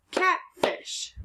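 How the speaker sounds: whispery high catfish reveal; excited blend. Shown as a demonstration. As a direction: squeak catfish as a happy discovery.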